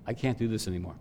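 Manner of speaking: 1 weary prayer. Retold or imitated. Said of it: "and I just said".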